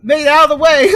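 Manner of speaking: loud, high Cockney outburst; Cockney accent. Pretend. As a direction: yell it like an angry Cockney. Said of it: "in a random Cockney accent".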